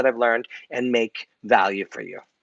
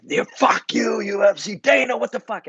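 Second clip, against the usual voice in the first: higher, hammed-up angry rant at the UFC; mock outburst; 10 semitones higher than usual. Venting at the UFC and Dana, a mock furious rant. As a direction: act out a pretend tantrum over the ban. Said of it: "if I freaked out today".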